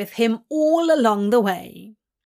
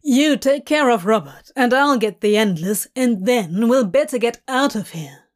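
loud, brisk instructions; urgent orders; 5 dB louder than usual. Acted. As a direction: hurry them along. Crowley giving orders.

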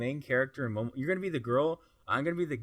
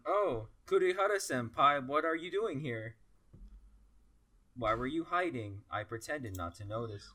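put-on anime boy voice; 2 semitones higher than usual. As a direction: play the shy anime lead. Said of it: "most monotone voices to match the tone".

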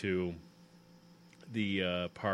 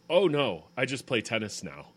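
laughing through quote; 3 dB louder than usual. Retold or imitated. Retelling Phoebe's reply, laughing.

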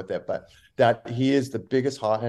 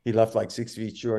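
ordinary talk, nothing marked

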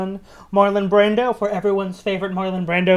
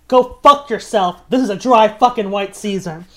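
mock movie quote; 6 dB louder than usual. Quoting a made-up Marlon Brando climax line to the hosts, as a hammed-up dramatic shout. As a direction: bark it like a fake dramatic climax. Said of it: "my personal favorite is".

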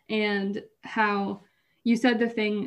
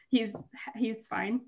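laughing; slower than usual. Real, not acted. Laughs at own point.

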